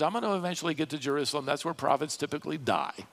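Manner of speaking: quick, understated sarcastic paraphrase; lightly sarcastic retelling; wry sarcasm. Retold or imitated. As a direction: toss it off drily, fast. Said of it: "Little sarcasm there as well".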